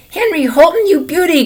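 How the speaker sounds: loud, high cheering holler from the stands; excited grandma yelling from the bleachers. A narrator's reading. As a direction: call out proudly across the rink. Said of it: "Grandma hollered from the bleachers".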